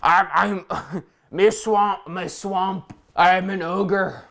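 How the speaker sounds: slow ogre voice, breaking into a laugh; a lumbering ogre who can't keep a straight face; a slow, hammed-up Shrek impression with a giggle. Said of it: "We have to do a Shrek voice".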